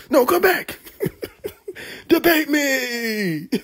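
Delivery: high mock plea, laughing through it; drawn-out, laughing debate me. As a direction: call him back while cracking up. Mocking preacher calling after.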